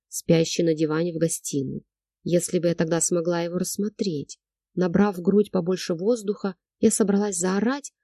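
ordinary delivery

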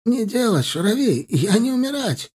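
high, tearful, desperate broken Russian; crying plea. A narrator's reading. Captive crying and begging under the knife. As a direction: cry out for your life.

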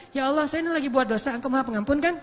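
flippant prayer ending in a cheeky question rise on kan; mocking prayer. Shown as a demonstration. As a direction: tease God while still sinning. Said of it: "itu mah ngeledekin Allah".

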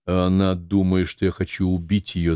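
usual speaking voice

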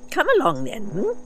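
put-on dry, amused old man; old doctor. A narrator's reading. The doctor eyeing the ship, wry and high.

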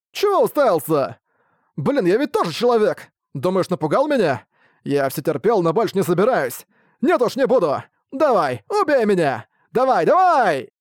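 high, shouted dare; drunken defiance. Acted. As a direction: taunt him to strike, yelling. Drunk merchant defies Ark. (пьяный вызов, высоким криком)

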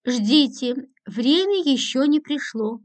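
a hint of ominous menace, slow; lightly sinister warning, slow. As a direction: make it mildly sinister, unhurried. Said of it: "зловеще сказала Анисья".

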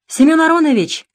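sugary, smiling phone greeting; sweetly smiling. A narrator's reading. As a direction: fawn over him on the phone. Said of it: "сладко улыбаясь".

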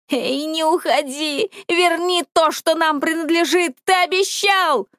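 кричи вслед уходящему вору; roaring demand. A narrator's reading. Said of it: "взревела Пимфридо". (яростный рёв, нарастающий)

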